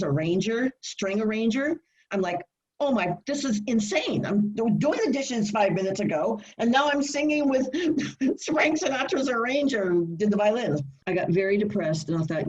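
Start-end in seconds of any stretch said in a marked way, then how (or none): 2.8-10.8 higher, laughing amazement; excited disbelief. Retold or imitated. Recalling singing with a famous singer's arranger, amazed. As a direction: marvel at it, half laughing.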